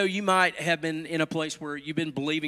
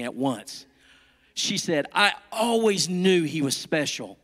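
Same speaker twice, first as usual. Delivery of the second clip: lively, melodic storytelling with careful phrasing; animated picture-book narration; storybook read-aloud. A narrator's reading. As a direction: read it to little children.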